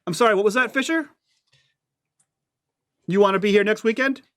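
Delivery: sharp stern vice principal; stern threat. Acted.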